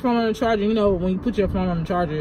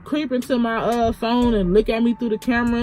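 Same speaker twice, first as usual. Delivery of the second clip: imitated outrage, pitched up; indignant; 5 semitones higher than usual. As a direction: retell someone's upset rant, higher voice. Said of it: "That really angers me".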